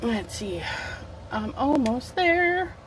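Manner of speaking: talking with a mouth full; words round a bite of lunch. Real, not acted. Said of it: "pardon me while I talk with my mouth full".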